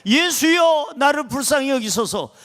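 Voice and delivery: a beggar calling to Jesus, pleading cry. Shown as a demonstration. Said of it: "예수님을 찾으시기 바랍니다".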